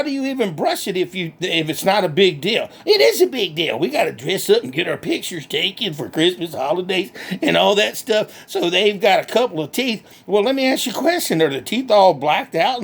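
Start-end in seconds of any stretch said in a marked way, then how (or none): 2.8-10.0 lightly voiced country hick, cheerful and boastful; redneck Bubba. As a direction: play a proud backwoods redneck bragging. Bubba answers.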